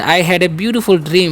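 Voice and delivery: very slow, word by word English; slow dictation. Shown as a demonstration. Teacher to students, slow dictation. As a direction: spell it out slowly for the class.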